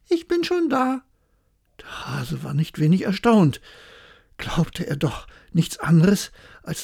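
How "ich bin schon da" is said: calling out. Acted. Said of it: "rief ihm die Frau des Igels entgegen".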